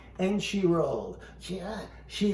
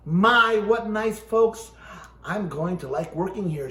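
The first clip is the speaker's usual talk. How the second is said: hint of Amelia; 6 dB louder than usual. Ventriloquist reads Amelia admiring the house, a touch of delight. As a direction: greet the house with a lightly voiced delight.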